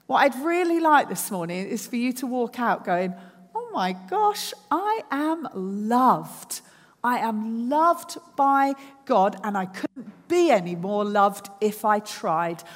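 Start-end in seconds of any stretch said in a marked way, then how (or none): 3.5-12.6 breathless wonder at being loved; overjoyed. Pretend. Congregant leaving church, voicing amazed, joyful realisation.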